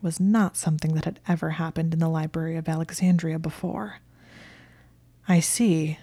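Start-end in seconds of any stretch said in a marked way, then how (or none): 5.3-6.0 confused skepticism. Acted. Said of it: "in a tone of confused skepticism".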